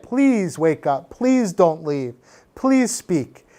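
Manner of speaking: slow, measured polite pleas; courteous, unhurried requests. Shown as a demonstration. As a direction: ask politely, drawing out each please. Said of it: "we can be more polite".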